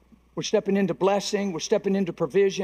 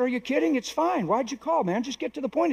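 higher, casual brush-off; breezy reassurance; 6 semitones higher than usual. Retold or imitated. Worker reassuring his apologetic supervisor on the phone, breezy. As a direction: wave away the apology lightly. Acted reply to apologetic caller.

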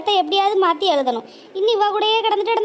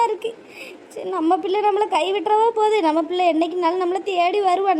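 mother's lament. Acted. Mother alone laments daughter leaving.

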